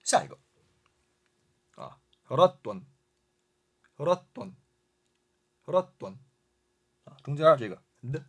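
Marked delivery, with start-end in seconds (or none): 2.3-6.2 raton with a short catch before ton; teacher repeating raton with a small stop in the middle; slight mid pause. Shown as a demonstration. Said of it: "稍加停顿即可".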